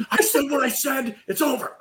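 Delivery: high-pitched defiant protest, half laughing; mock anger. Defending his answer to the group, mock anger. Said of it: "I'm trying to resist going to anger".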